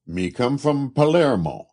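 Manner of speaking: proud Italian laborer naming home; Italian accent. A narrator's reading. Italian laborer tells walkers his home, Italian accent. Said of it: "Italian laborer".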